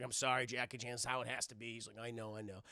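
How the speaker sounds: low, soft and subdued; hushed, low, regretful exchange; resigned apology. Acted. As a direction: say it quietly, with regret. Boss apologizes, Jackie resigned.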